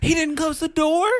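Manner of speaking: high disbelieving squeal; can't believe he left it open; incredulous. Retold or imitated. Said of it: "I was like".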